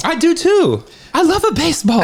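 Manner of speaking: high-pitched cartoon Italian accent; hammed-up Italian accent. Joking to cohost about baseball, mock Italian accent. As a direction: put on a silly, high Italian voice. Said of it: "I thought it was the racist accent".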